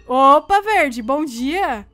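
very slow, drawn-out teasing good morning; mock sweet greeting. Killer greets the green player, slow and teasing. Greets victim before killing.

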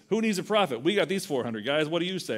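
lightly voiced swaggering king; a hint of a boastful king egging him on; cocky Ahab. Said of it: "And Ahab says".

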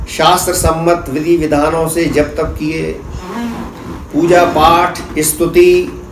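declaimed verse, phrase by phrase with pauses; measured, rhythmic spoken poem; poetry recitation. Acted. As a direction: recite to an audience, repeating lines and building lists in a steady cadence.

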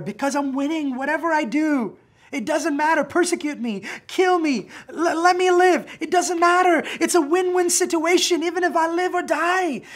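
high, loud, triumphant; exultant proclamation. Acted. Preacher answering as Paul, exultant about living or dying. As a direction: shout the win-win like a victory.

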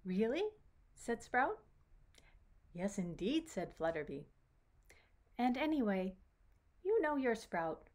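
gentle, lilting storybook narration; story reading to children. A narrator's reading. Storyteller telling children about Sprout meeting Flutterby, lilting read-aloud. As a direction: read it to a small child, with animated dialogue.

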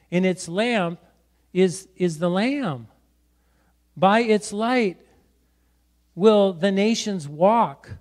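measured, deliberate Bible reading; solemn public reading; scripture reading. Acted. Reads scripture aloud.

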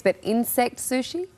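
doubtful question, rising at the end; incredulous. Real, not acted. Host questions reporter about eating insect sushi, incredulous. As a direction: query it in disbelief, ending on a rise.

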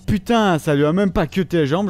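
mock the game in a loud huff; sarcastic rage. Real, not acted. Raging at game. (colère sarcastique contre le jeu)

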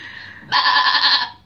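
breathy goat bleat. Pretend. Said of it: "have you heard my goat impression?".

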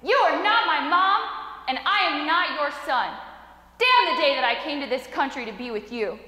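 heated retort, pitch jumping up; mad, almost crying. Retold or imitated. Hurt son answering his yelling mother, mad. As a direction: fire back angrily, retold with some restraint. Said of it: "mad, almost crying".

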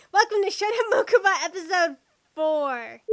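loud episode announcement; loud intro. Acted. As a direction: announce it with force.

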